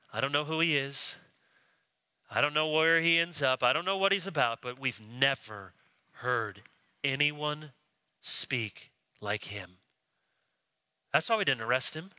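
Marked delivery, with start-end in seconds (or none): 0.1-9.8 awed hush. Retold or imitated. Officers voiced, hushed awe.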